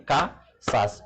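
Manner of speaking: "Casas" split, with the first syllable CA stressed. Shown as a demonstration. Teacher showing where the accent falls, "Casas" broken after stressed CA. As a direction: hit CA, pause, then sas in "Casas". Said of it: "accent tonique là, trouvez le sous K".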